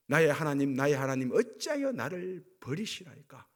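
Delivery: loud retold cry to God; imitated anguished cry. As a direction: cry out as Jesus forsaken on the cross. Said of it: "그래서 절규하는 거예요". (예수님의 절규를 큰 소리로 재연)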